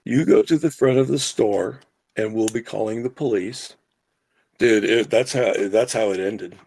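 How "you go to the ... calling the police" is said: taking charge. Retold or imitated. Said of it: "I said".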